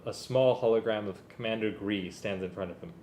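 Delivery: story narration. A narrator's reading. Reads Star Wars story aloud.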